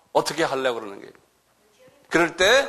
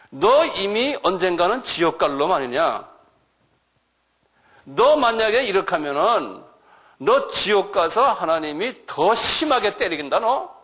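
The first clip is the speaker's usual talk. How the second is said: stern warning; 3 semitones higher, slower than usual. Acted. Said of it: "이렇게 하는 거예요".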